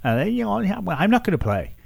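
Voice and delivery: put-on high, babyish whine of a sulking player; mock a pouting child who won't play; whiny baby voice. Mocking the player as a whiny baby. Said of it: "like a baby, said".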